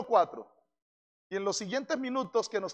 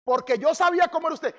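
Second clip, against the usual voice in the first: reproachful; 5 semitones higher, 3 dB louder than usual. Acted. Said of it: "le recrimina a Dios".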